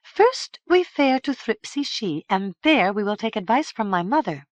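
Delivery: decisive. A narrator's reading. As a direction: settle it firmly. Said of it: "responded with decision".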